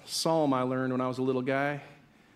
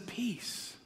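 sudden soft hush amid forceful preaching; hushed command; 9 semitones higher, 9 dB quieter than usual. Acted. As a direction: drop to a soft, calming word. Jesus hushing the raging storm.

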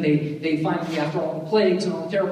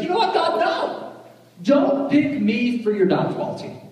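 mock Moses refusing; 8 semitones higher, 4 dB louder than usual. Moses refuses God, retold.

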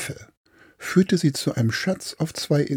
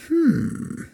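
murmured hum. Acted. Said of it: "murmelte der Captain".

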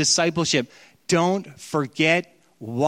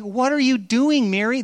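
startled question; 7 semitones higher, 3 dB louder than usual. Retold or imitated. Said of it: "It's like".

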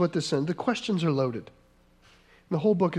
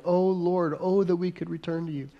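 a hint of desperate yearning. Shown as a demonstration. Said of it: "make it even desperate".

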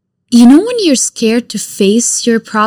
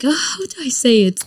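quick awkward whisper to herself; whispered self-talk; 3 semitones higher, faster than usual. Retold or imitated. Whispering to herself about saying I love you. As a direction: hush it out, flustered. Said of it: "I'm like".

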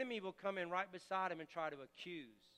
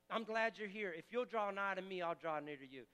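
welcoming convicting voice. Acted. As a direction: welcome him without a word about the past.

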